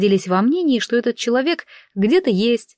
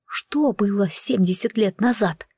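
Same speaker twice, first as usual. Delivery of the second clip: breathless voiceless whisper, barely mouthing the words; 3 dB quieter, slower than usual. Acted. Heroine whispers to the werewolf in shock, voiceless whisper. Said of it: "одними губами я прошептала".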